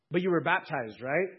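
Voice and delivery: a lightly voiced probing angel; questioning angel. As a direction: push for a reason.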